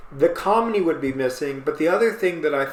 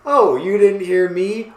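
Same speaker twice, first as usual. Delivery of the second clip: louder, higher acted challenge; mock escalating yell; 4 semitones higher, 6 dB louder than usual. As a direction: repeat it a notch more insistently. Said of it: "All caps, bold".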